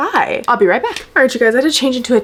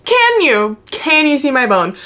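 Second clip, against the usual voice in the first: retold shock; 4 semitones higher than usual. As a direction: ask it like you can't believe it. Shocked to hear bone visible.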